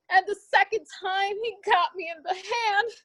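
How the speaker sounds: shaken crying. Acted. Wounded man reporting shooting.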